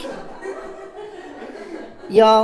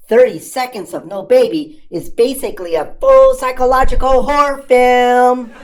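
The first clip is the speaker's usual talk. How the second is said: mock horror; 3 semitones higher, 6 dB louder than usual. Panic build.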